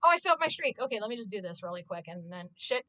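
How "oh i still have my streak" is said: relieved delight. Real, not acted. Relief at keeping streak.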